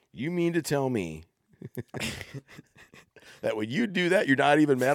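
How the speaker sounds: high, incredulous mock question; mock astonishment. Dad retells son's astonished question.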